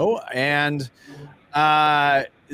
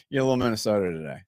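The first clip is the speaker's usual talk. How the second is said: put-on Minnesota accent; much faster than usual. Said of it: "why are you doing a Minnesota accent".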